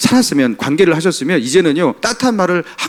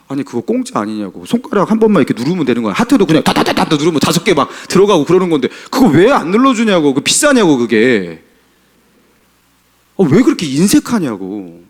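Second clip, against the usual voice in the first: exasperated scolding. Retold or imitated. Pastor retelling how he chided his stingy friend, exasperated. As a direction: needle the friend for being stingy with hearts.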